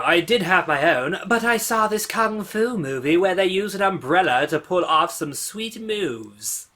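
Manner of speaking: a hint of a game heroine; Chie voice. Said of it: "How was my Chie voice?".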